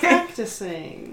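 slow, drawn-out mimicry; mocking echo. Player teasing game master about practicing, mocking echo.

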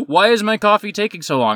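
high-pitched mock complaining; mock man's fit. Customer back after three minutes, high mock fit. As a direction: imitate a customer throwing a fit. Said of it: "threw a fifty-year-old man fit".

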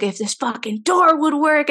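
hammed-up annoyed husband; frustrated grumble. Joe's frustrated retold outburst.

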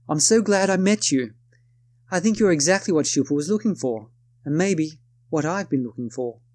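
put-on a modest go at her British accent; British accent attempt. Narrator quoting Beatrice's job offer in a light British accent. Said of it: "excuse my attempt at an accent".

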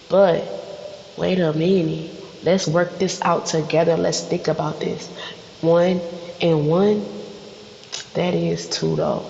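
gently walk them through it, low; calm reasoning. Acted. Partner talking babe through simple math, calm and reasoning.

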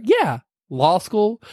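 put-on high, airy valley girl voice; breezy Elle. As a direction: brush it off like it's nothing. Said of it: "What, like it's hard?".

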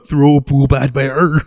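loud, slow, broken ape talk; loud chimp voice. Acted. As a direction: bellow it like an angry chimp.

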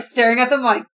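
usual speaking voice

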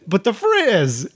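put-on slow, high plea of a feverish child; whiny sick kid. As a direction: drag it out like a sick little kid begging. Sick kid pleading with teacher.

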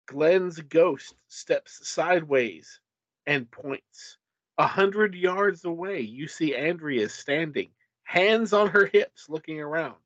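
measured, dramatic gamebook reading; story narration. A narrator's reading. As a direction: narrate a suspenseful adventure tale. Reads gamebook narration aloud.

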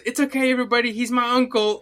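imitating Judy calling out. Repeats Judy line for co-host.

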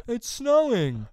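loud high mock movie dad; hammed-up cheerful movie star; Tim Allen. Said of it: "And he's like".

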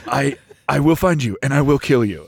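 low, fast, flat threat; menacing; deadpan threat. Retold or imitated. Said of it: "you can't change his accent now".

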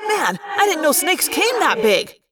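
high, incredulous exclamation; astonished character voice; amazed. Acted. Amazed at a huge snake.

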